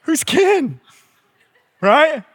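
laughing in total confusion; baffled laugh. Retold or imitated. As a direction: squeak out a baffled what. Retelling baffled reaction, laughing.

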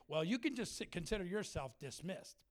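mildly catty dismissal, imitated; a touch of put-on cattiness. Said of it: "he's just so catty with me".

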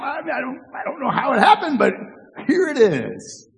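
mock innocent shrug of an excuse with a laugh; Aaron's lame excuse. Preacher voicing Aaron's excuse to Moses, sheepish and mock innocent. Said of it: "His excuse".

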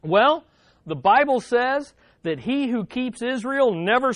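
a hint of a calm old lady; lightly voiced grandmother. Grandmother telling rescuers why she slept, lightly voiced. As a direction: say it simply, unbothered. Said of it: "here's what she said".

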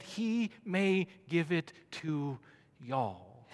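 slow, lightly put-on southern drawl; mock southern accent, drawn out. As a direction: stretch it out with a touch of southern drawl. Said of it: "Jesus spoke with that southern accent".

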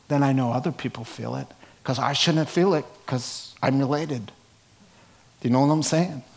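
light Brooklyn accent slipping in. Real, not acted. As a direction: talk with a hint of Brooklyn. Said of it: "hear my little Brooklyn accent coming out there".

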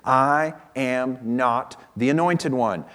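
"I am not" slow and spaced out; a measured, deliberate denial, each word of "I am not" set apart; emphatic denial. Retold or imitated. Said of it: "he made it abundantly clear".

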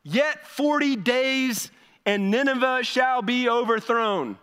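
hammed-up slow prophet call; mock prophet proclamation. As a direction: intone it like a grim prophet. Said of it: "he calls out".

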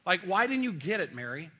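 exasperated, hands-on-hips chiding of Mary; impatient scolding. Retold or imitated. Jesus imagined scolding Mary, impatient and exasperated. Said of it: "with his hands on his hips".

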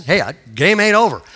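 lightly voiced father's urging; a hint of a coaching dad; encouraging dad. Retold father urging his son on.

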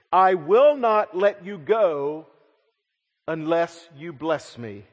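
desperate plea. Acted. Jacob clinging to the wrestler.

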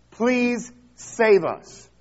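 loud, high, drawn-out plea; crowd's scream. Acted. Preacher voicing the roadside crowd screaming to Jesus, pleading cry. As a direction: cry out slowly, begging to be saved. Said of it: "are screaming".

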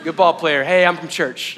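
halting, awkward small talk with long pauses; awkward icebreaker. Retold or imitated. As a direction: imitate fumbling for an opener with a stranger. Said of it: "the segue is difficult".

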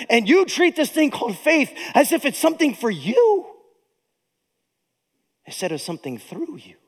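a preacher voicing James in righteous anger; stern rebuke. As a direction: scold the church as James would. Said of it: "And James like".

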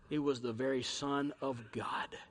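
hushed, breathless whisper. Real, not acted. Preacher revealing the Son of God, whispered. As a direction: let it fall to a whisper.

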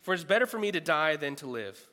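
preacher half-acting Jonah's bitter prayer; reading Jonah's rant. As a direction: give voice to the prophet's complaint, loud. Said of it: "He goes on a rant".

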